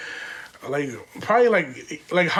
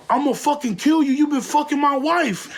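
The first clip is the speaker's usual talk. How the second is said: higher, hammed-up furious husband; mock threat; 7 semitones higher than usual. Husband threatens him over the phone, mock-angry. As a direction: play the jealous husband threatening.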